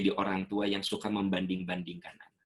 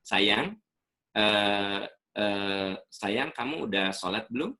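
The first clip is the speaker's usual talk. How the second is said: gentle asking; slower than usual. Shown as a demonstration. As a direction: ask kindly, don't push. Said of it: "Nada suara jangan langsung digas".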